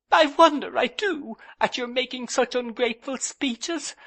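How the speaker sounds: high, loud tearful complaint; a touch of tears in a young wife's voice; sobbing. A narrator's reading. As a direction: sob out the grievance, mildly. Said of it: "sobbed Dora".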